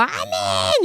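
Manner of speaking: very high, drawn-out amen; fervent amen. Shown as a demonstration. Teacher showing children the people's amen, fervent. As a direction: let the amen soar. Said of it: "이렇게 막".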